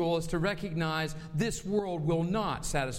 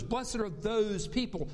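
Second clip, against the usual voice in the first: "Blessed are those people." slow, each word weighted; slower than usual. Shown as a demonstration. Pastor stressing "those people" to the church, slow. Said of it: "Who are the those in verse ten?".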